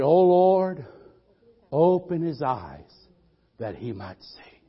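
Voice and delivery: gentle prayer. Acted. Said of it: "Elisha prayed".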